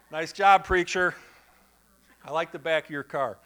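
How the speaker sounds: hammed-up parking-lot sarcasm; mock sarcastic driver. Angry driver mocks preacher.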